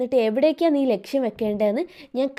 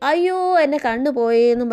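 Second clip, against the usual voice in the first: louder, imitated cry of pain; mock wailing; 2 semitones higher, 5 dB louder than usual. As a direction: retell a pained wail without real sobbing. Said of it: "ആർത്ത് കരയാൻ തുടങ്ങി".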